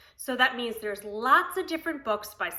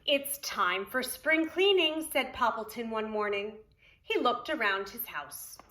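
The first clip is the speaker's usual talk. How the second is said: lively, sing-song storybook reading; reading to children. Acted. Preschool teacher reading Poppleton to children, storybook voice. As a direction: read it aloud to the preschool class. Reads picture book aloud.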